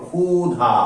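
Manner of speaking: ক্ষুধা said as "khu-dha"; initial kh sound. Shown as a demonstration. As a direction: open ক্ষুধা on a plain kh, syllables drawn out. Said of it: "উচ্চারণটা করবো খ".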